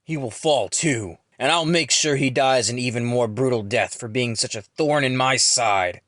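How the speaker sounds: angry yell. A narrator's reading. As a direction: vow revenge in a restrained yell. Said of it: "angrily yells".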